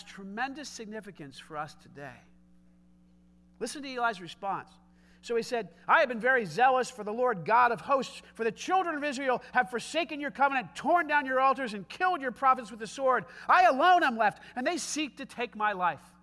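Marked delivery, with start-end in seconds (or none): 5.9-16.1 loud, hammed-up lament, louder on I alone; dramatic tones. Elijah complaining to God, dramatic and loud. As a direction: play up the self-pity like a tragic hero. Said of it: "He says this with dramatic tones".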